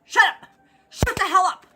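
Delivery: high, loud re-enacted shout; retold angry yell. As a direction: shout it to silence a barking dog. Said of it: "so I tried it. I went".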